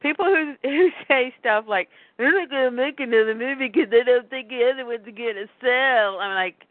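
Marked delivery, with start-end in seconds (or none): 2.2-6.2 lightly put-on voice of a doubter; mocking naysayers. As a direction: imitate silly complainers, half in jest. Mimicking naysayers who doubt the movie.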